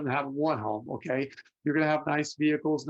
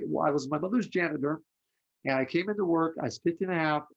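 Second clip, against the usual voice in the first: ordinary talk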